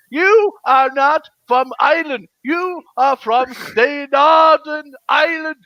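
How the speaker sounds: insist, drawing the words out. Real, not acted. Arguing over who is Irish.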